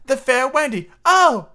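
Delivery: high, loud gasp of wonder; soaring, hammed-up amazement; thrilled reveal. A narrator's reading. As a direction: exclaim the discovery with theatrical delight. Boys thrilled by the story's reveal.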